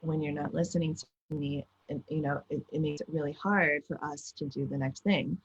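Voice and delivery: put-on soft, gentle words at a child's level. Shown as a demonstration. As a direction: kneel down and speak kindly. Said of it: "get down on my kid's level and say".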